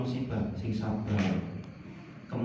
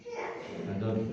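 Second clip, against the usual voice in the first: "Tidak cocok" repeated much softer and slower; quiet slow repeat; 4 semitones lower, 9 dB quieter, slower than usual. Shown as a demonstration. Preacher repeats to the congregation, soft and slow. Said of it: "Kan tidak cocok".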